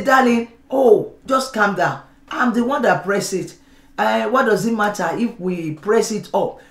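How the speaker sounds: calm your spouse down gently; soft answer. Retold or imitated. Husband soothing wife about toothpaste, softly. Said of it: "That's a soft answer".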